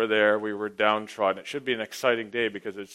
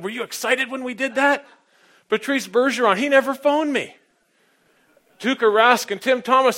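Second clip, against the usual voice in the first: much higher, louder, worked-up joking rant; mock indignant excitement; 11 semitones higher, 6 dB louder than usual. Pastor joking to the congregation that the Bruins never called him, worked-up excitement. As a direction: ham up the outrage for laughs.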